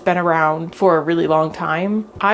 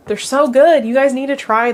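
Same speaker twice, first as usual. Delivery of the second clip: higher, louder burst of delight; excited; 5 semitones higher, 4 dB louder than usual. Real, not acted. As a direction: gush about the taste. Excited tasting, repeated.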